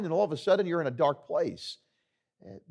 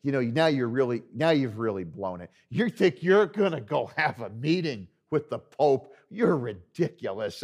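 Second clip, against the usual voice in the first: lightly acted barber pouring cold water on it; discouraging downer. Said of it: "being a downer".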